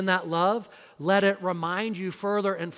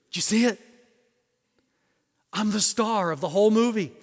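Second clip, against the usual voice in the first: proud boasting friend; 4 semitones higher, 6 dB louder, faster than usual. Retold or imitated. Friend boasting after movie.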